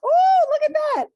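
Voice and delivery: high, bright put-on Irish lilt; mock Irish accent. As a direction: ham up an Irish accent for fun. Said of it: "don't wanna hear Irish accents".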